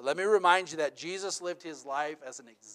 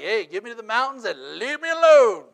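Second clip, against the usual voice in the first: loud, higher mock plea to escape; longing outcry; 8 semitones higher, 14 dB louder than usual. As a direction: beg for the mountains, half joking. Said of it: "It's like".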